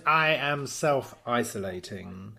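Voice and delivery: lightly voiced smug mogul; slow self-important voice; mock Simon Cowell. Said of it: "he says".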